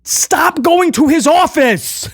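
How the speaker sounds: solemn imitation of Priest; sincere Priest impression. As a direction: deliver it dead serious and slow. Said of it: "He, he goes".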